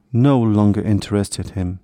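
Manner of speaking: usual speaking voice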